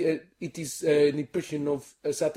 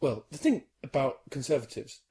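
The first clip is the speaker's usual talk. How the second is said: softer politician impression; measured, quieter mock statesman; David Cameron; 2 semitones lower, 7 dB quieter than usual. Comedian doing Cameron on request, subdued politician voice. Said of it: "do David Cameron".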